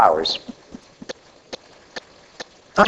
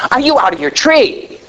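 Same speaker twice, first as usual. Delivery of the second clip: incredulous wife; 6 semitones higher than usual. Retold or imitated. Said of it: "So my wife is saying".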